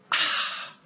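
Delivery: breathy contented ah after a drink; satisfied "ah". Retold or imitated. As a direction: let out a soft satisfied ah after a sip. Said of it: "just like I do after my cup of tea".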